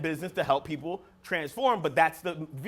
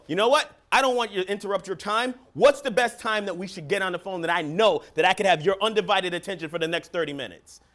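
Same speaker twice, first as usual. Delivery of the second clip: calm, sure-footed phone pitch; certainty. Shown as a demonstration. Coach showing sellers a confident callback voice, steady and sure. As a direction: sound certain and in control. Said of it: "That's certainty in my voice".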